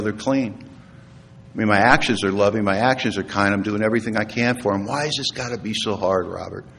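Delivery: softened, subdued protest; retold weary plea. Man asks his sponsor why it is hard, subdued and weary. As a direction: plead quietly, fading away by the end.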